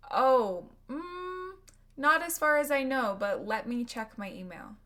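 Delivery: unsure reply. Acted.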